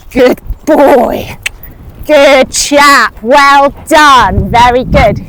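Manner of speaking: loud, hearty cheer; loud praise. Real, not acted. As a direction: call it out proudly. Praising horse after a good jump.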